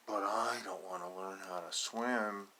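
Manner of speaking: lightly voiced stubborn duckling, slow; a hint of a sulky little duck refusing; slow pouty duckling voice; grumpy duckling. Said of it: "said this guy".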